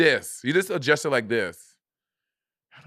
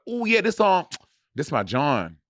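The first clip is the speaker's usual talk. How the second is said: Philly slang; 4 semitones higher, slower than usual. Retold or imitated. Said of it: "Philly slang".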